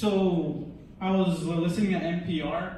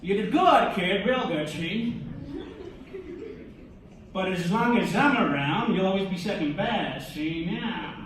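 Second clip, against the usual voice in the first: lightly voiced tough-guy boss from New York; mock New York mobster voice; old-time New York gangster. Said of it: "like, old-time gangsters, from, like, New York".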